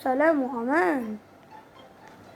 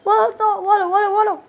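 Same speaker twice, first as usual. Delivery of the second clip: high, loud yelling at a friend; yelling at a teammate who gave him away; loud protest; 4 semitones higher, 5 dB louder than usual. Real, not acted.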